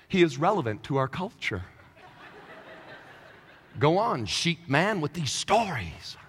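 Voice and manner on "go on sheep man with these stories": mock crowd. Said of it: "And the people were like".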